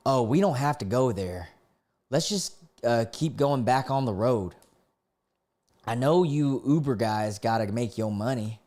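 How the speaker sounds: lightly voiced country passenger; a mild country twang; country accent. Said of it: "let me do this with a country accent".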